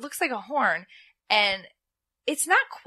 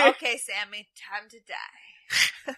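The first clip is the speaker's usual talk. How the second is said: casual threat; slower than usual. Retold or imitated. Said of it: "so, like, casual".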